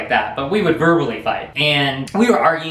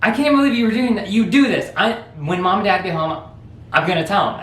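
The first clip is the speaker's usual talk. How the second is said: higher, fast tattletale brother; older brother threatening to tell the parents, fast and raised; tattling brother; 4 semitones higher than usual. Retold or imitated. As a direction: threaten to tell Mom and Dad. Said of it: "he goes".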